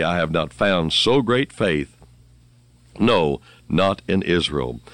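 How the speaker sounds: each word set down slowly and firmly; emphatic, slow. Acted. Preacher voicing Jesus to followers, emphatic and slow. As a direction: lean on every word with slow weight.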